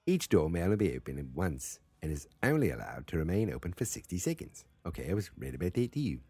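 badly faked Australian accent. Shown as a demonstration. Host fumbles through the door rules, bad Australian accent. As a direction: read the rule in wobbly mock Australian. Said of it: "That's not how they talk".

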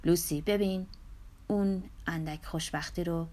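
soft murmur fading into a whisper. Acted. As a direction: breathe it to her, barely voiced. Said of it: "پیر زمزمه کرد".

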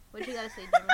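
squeaky mock voice. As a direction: squeal it like a cartoon. Mock teacher prompting Jimmy.

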